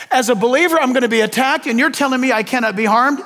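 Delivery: mock disbelief, quick rhetorical question; sarcastic. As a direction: play it sarcastic, poking at the idea. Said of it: "And I'm being sarcastic with you".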